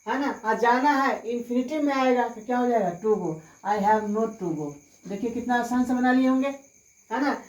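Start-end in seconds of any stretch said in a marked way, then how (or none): 3.0-4.7 very slow, each word spelled out for students; slow dictation. Shown as a demonstration. Teacher dictating the English answer to students, very slowly. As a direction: say it slowly so students can write. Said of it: "teacher dictates English sentence".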